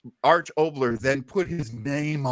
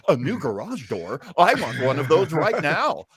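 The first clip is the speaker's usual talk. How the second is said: ad reply; 3 dB louder than usual. Retold or imitated. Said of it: "and now I hear, like".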